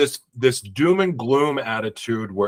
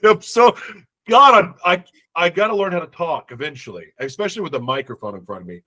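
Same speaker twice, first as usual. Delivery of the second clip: stuffy nose, talking through congestion; blocked nose. Real, not acted. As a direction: speak like your nose is blocked. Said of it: "I can't breathe out of my nose right now".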